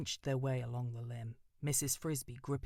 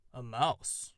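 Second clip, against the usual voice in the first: unbelieving; 6 dB louder than usual. Acted. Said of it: "The sonorous voice sounded unbelieving".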